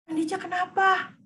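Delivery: put-on gently asking the child what is wrong; a mother coaxing her upset child; parent voice in roleplay. Parent asks angry child, roleplay. (nada ibu yang bertanya lembut)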